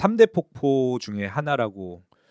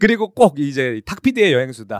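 home shopping pitch; 5 dB louder than usual. Pretend. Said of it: "이게 홈쇼핑 모드처럼".

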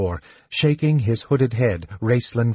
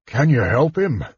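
a touch of urgent demand; 3 semitones higher than usual. A narrator's reading. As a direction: insist on an answer. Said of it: "Caramon demanded".

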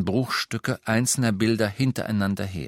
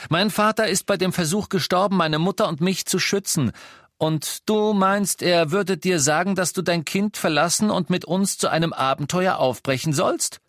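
higher, loud accusing rant; angry Harry; 8 semitones higher, 3 dB louder than usual. A narrator's reading. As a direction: throw the accusation at him. Harry attacks Lupin in anger. (Harry wirft Lupin wütend Feigheit vor)

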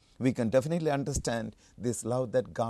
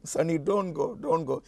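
mildly pleading mother, pitch slightly raised; 4 semitones higher than usual. Retold or imitated. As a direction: retell a mother's plea. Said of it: "He was pleading".

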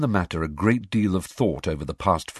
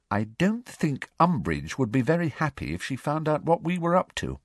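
Hermione's voice; 8 semitones higher than usual. A narrator's reading. Hermione explains about Umbridge.

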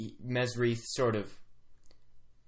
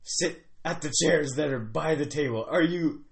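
higher, lightly voiced grumbly chief; 5 semitones higher, 5 dB louder than usual. Chief correcting a confused guest, lightly grumbly. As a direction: correct them in a weird chief's accent. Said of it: "some sort of weird grumbly accent".

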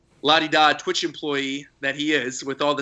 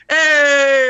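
loud cheerful shout across the room; 10 semitones higher, 10 dB louder than usual. Retold or imitated. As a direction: call out a big greeting. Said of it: "he goes".

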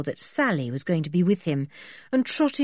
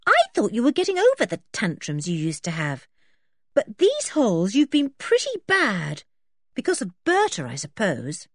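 lightly voiced scolding girl; 3 semitones higher than usual. Anne lectures George in story.

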